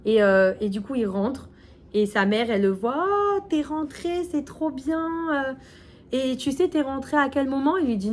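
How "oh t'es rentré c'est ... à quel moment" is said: higher, delighted mother's greeting; happy mother. Retold or imitated. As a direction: greet your son home with joy. Mother greets returning son.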